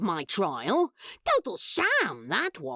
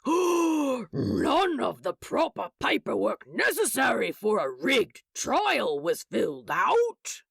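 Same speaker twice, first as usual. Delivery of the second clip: a lightly voiced, shocked office clerk; Salios, scandalised clerk; 5 semitones lower than usual. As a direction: clutch your pearls over the paperwork.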